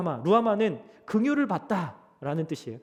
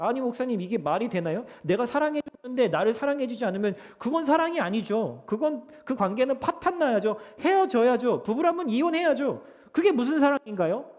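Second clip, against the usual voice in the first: acted objection, pitched higher; mild indignant protest; 5 semitones higher, 3 dB louder than usual. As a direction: lightly play an aggrieved churchgoer arguing back. Acted congregant protesting to the pastor. (살짝 따지듯 항의하는 말투)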